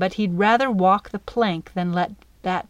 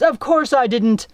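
gruff shout; 5 semitones higher, 5 dB louder than usual. Acted. Captain still shouting.

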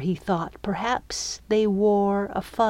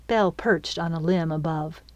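usual speaking voice

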